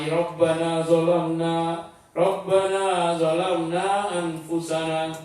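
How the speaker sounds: slow, lightly chanted supplication; praying. Acted. Adam prays after eating the forbidden fruit, slow supplication. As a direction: recite it slowly as a drawn-out prayer. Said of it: "dia berdoa".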